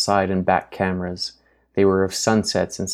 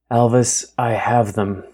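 breathless; 3 semitones higher than usual. Acted. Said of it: "She breathed heavily, words emerging in slow chunks".

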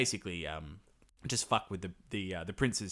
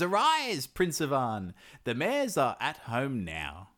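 grand bird herald; 3 semitones higher, slower than usual. Retold or imitated. Magic bird wakes the prince.

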